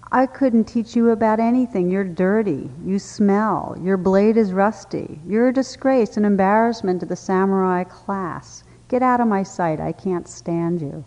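loud scornful put-down; utter disdain. Acted. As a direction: sneer at the mighty warrior. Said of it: "replied with utter disdain".

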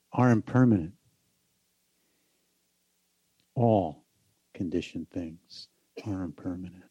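measured contemplative delivery, phrase by phrase; guided meditation. Acted. Teacher giving the meaning of the chant to meditators, guided meditation. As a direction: let each phrase settle in silence.

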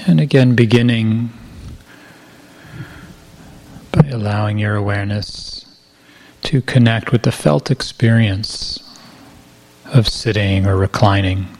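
calm, unhurried meditation guidance with long pauses; guided meditation. Real, not acted. Teacher guiding retreatants to feel body weight and gravity, guided meditation. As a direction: ease listeners gently into the body, pausing between phrases.

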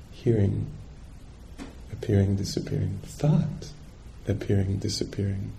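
gently name each passing experience; soft meditative noting. Shown as a demonstration. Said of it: "noting is like this".

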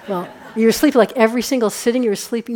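laughing. Retold or imitated. Teacher acting interview, laughing.

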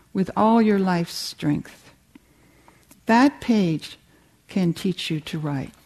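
measured, deliberate literary reading with weighted pauses; reading a quotation. Acted. Writer reads an author's answer to a student, measured reading aloud.

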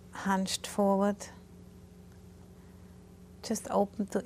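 calm, unhurried guidance with long pauses; guided meditation. Real, not acted. Teacher guiding meditators through posture and body awareness, calm guided meditation. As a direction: gently talk them through settling the body.

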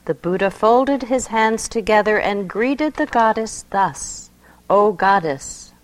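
expressive poetry reading; poem reading. Acted. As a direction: read it like a sacred story. Reads a mystical poem aloud.

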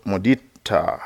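"mudita" with the final a drawn out long. Shown as a demonstration. Teaching a Pali word to meditators, long final A in "mudita". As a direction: hold the last vowel of "mudita", a long "aah". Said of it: "is a long A".

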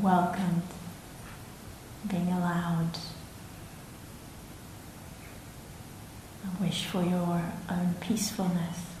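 soft, unhurried meditation guiding with long pauses; guided reflection. Real, not acted. Meditation teacher inviting listeners to welcome themselves, soft guiding voice. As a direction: let each phrase settle quietly before the next.

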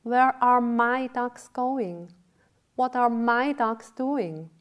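high, loud, drawn-out dismay; distressed. A narrator's reading. Dull-witted man watching his ducks fly away, distressed. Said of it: "was very distressed".

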